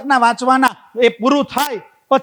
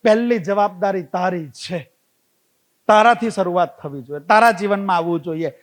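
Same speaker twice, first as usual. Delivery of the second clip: calm advice; 5 semitones lower than usual. Retold or imitated. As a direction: lower the voice and guide him. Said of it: "વિદ્યારામ સ્વામી એટલું જ કીધું". (સ્વામી ચિંતિત વ્યક્તિને શાંત સલાહ આપે)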